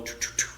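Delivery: little mock "choo" bursts; mimicked volley of choos; imitated rapid-fire noise. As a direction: punctuate it with three choo sounds. Mimes a scolding with sounds.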